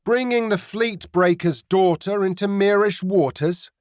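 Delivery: pirate captain pretends to be worried; feigned apprehension. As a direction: fake a nervous tone, teasing. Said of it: "with feigned apprehension".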